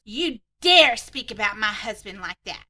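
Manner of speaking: mock angry yell. Sister-in-law furious at narrator.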